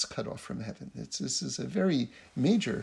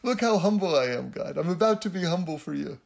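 showy, slightly raised mock boast; mock humility; 2 semitones higher than usual. Braggart praying about being humble, mock humility. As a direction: show off to God, tongue in cheek.

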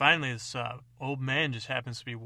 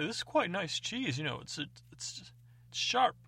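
Roland the connoisseur; 6 semitones higher than usual. Acted. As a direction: savour it like a snobby taster, pop the last word. Roland savours the evil cheese.

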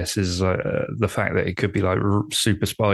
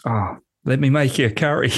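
put-on Australian accent; 5 semitones higher than usual. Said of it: "I'll give the accent again".

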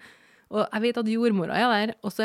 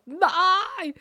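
mock high no; 11 semitones higher, 4 dB louder than usual. Protesting staff, retold.

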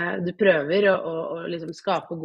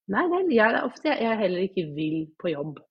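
wry inner thought; 2 semitones higher than usual. Retold or imitated. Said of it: "tenkte jeg sånn".

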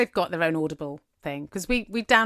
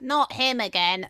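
higher, slow mock protest; children's weary complaint; 4 semitones higher than usual. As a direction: stretch it out as the fed-up kids. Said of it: "the kids were like".

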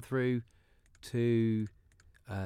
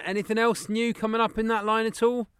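put-on caller voice; 6 semitones higher than usual. Prank caller voice on phone.

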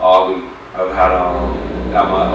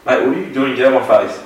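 higher-pitched, indignant retelling of a confrontation; indignant retort; 5 semitones higher, 4 dB louder, faster than usual. Retold or imitated. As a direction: push back at an aggressor, voice raised in pitch. Retelling confrontation with aggressive customer.

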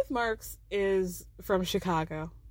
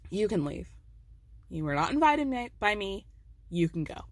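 low, icy brush-off; cold dismissive Meredith; 3 semitones lower than usual. Retold or imitated. Recapper voicing Meredith sending Angie off, icy and low. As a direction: dismiss her with a drop in pitch.

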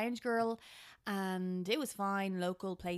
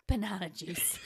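embarrassed whisper. Retold or imitated. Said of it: "Tom over there wants".

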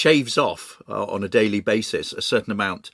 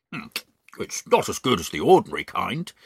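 mouth full. Acted. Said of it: "talking with his mouth full".

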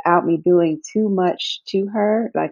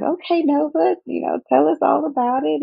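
greeting the newborn; 9 semitones higher than usual. Retold or imitated. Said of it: "we were like".

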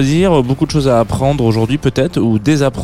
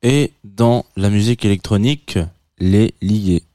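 slow, grand movie-trailer voice; slow epic narrator. Pretend. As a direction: intone it like an epic legend. Lord of the Rings punchline parody.

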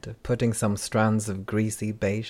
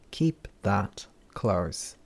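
whispered warning; much slower than usual. Acted. Handler warns a traveler.

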